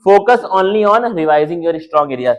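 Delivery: slow, careful reading; slow reading aloud. Shown as a demonstration. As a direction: read the action point slowly. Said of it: "action क्या हमारा होना चाहिए". (धीरे-धीरे पढ़कर सुनाना)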